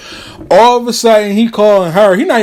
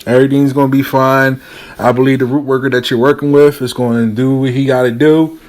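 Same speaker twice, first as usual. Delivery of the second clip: calming reassurance; 3 semitones lower than usual. Retold or imitated. Advisor to upset client, calming reassurance. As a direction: gently settle someone who's worked up. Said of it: "I told her to calm down".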